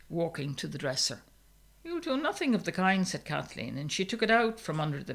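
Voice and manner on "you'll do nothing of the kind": high, emphatic refusal; wife putting her foot down, high; firm refusal. A narrator's reading. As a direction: forbid him in a sharply raised pitch. Wife refuses husband the letter.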